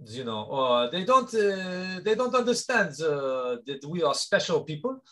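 light put-on Martinique French accent; lightly voiced French accent, hesitant and earnest; mock French Caribbean accent. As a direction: cohost goads him to show his real accent. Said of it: "an opportunity for you to open up".

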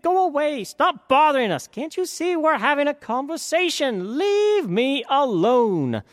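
high, loud, fed-up brush-off; annoyed prince. A narrator's reading. Prince shooing off the ladies, annoyed and loud. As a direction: shoo the pests away. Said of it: "He said".

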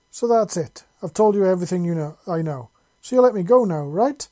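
high, loud, fast pleading hope; hopeful pleading. A narrator's reading. Captured raider pleading with Seven to let him go, high and hopeful. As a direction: beg to be let go, rushing the words. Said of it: "in a rather hopeful voice".

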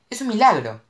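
high, loud joyous cry. A narrator's reading. Mo cries out in relief to Cash. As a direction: overflow with relief. Relief after near crash.

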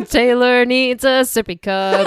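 slow, teasing proclamation; mock announcer. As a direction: announce it grandly to tease a friend.

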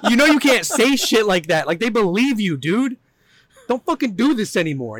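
high, loud mock outburst; angry boss quote. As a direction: yell it like the furious boss. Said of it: "and he goes".

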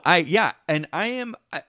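usual speaking voice

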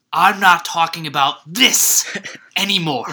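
slow, breathy whispered line; imitated whisper. Quoting Hoffa, whispered.

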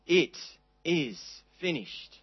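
slow, soft, settled "It is finished"; quiet fulfillment. Shown as a demonstration. Preacher giving the true meaning, soft and slow. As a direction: let it land as quiet victory. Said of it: "words of wonderful fulfillment and victory".

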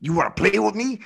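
Mister T voice. Pretend. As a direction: growl it like a hammy action hero. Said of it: "that's a hundred percent Mister T".

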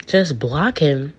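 slow, disbelieving question with swooping pitch; incredulous echo. Retold or imitated. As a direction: stretch it out in disbelief. Her incredulous echo of father.

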